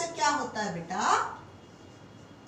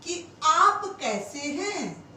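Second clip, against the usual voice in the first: slow dictation; 2 semitones higher, 3 dB louder, slower than usual. Shown as a demonstration. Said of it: "हम कहें".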